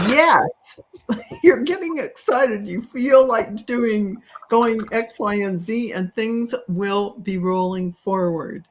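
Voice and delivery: high, bright relayed spirit voice, slowing on the list; excited. Retold or imitated. Reader voicing spirits cheering Sally on, high and excited. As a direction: pass on the spirits' cheer with a lift.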